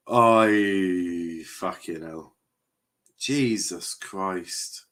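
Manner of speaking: groaned out very slowly; slow disbelief. Real, not acted. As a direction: drag it out in dismay. Dismay at poor play.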